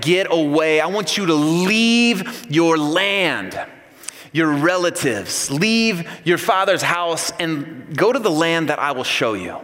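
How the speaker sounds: slow, measured reading of the verse; scripture reading. Acted. Pastor reading God's call to Abram, slow and solemn. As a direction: read the verse slowly and solemnly.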